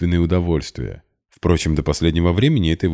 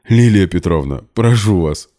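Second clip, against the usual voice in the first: through laughter; 3 semitones higher, 6 dB louder than usual. A narrator's reading. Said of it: "сквозь смех проговорил Максим".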